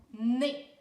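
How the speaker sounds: NEZ said alone, loud and distinct; syllable sounded out. Shown as a demonstration. Teacher showing the second syllable of journée, NEZ sounded out. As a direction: punch out NEZ as one syllable. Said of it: "Deuxième syllabe".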